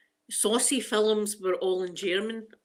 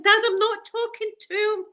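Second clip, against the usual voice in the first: protesting; 12 semitones higher, 6 dB louder than usual. Retold or imitated. Retold protest to dad.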